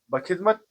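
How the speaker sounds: बखिदमत as one word, ba-khid-mat; बखिदमत, the right way; correct pronunciation. Shown as a demonstration. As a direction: say बखिदमत tightly joined, ba-khidmat. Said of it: "इसका सही तलफ़ुज़ है".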